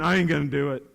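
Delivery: sullen low refusal; defiant student mumble. Retold or imitated. Teacher mimics a stubborn student refusing to raise a hand, sullen. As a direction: mimic a kid refusing to budge. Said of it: "some of you even went".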